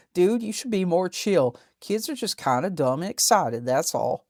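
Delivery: lightly voiced Appalachian dude; hillbilly accent. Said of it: "talks like a hillbilly".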